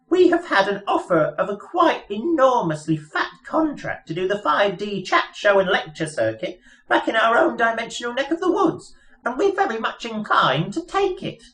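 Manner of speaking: high, chirpy little mouse voice; piping mouse voice. Acted. Mouse explaining their plans to Arthur, piping high voice. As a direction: squeak it out like a pompous lab mouse.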